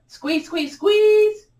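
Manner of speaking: high-pitched rising chant, last word held; urging squeeze. Real, not acted. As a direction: cheer on the final squeeze in a high voice.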